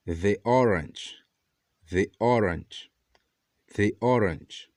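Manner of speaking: slow "the orange" with "the" as "thee"; the before a vowel. Shown as a demonstration. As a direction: model "the orange" slowly as "thee orange". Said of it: "Outro exemplo que temos".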